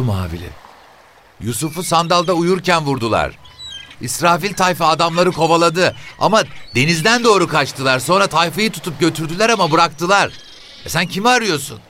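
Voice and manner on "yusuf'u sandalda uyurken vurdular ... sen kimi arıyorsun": put-on high, brisk old woman's voice; quick, nosy old mother. A narrator's reading. Mother telling the officer where her sons are, high and quick.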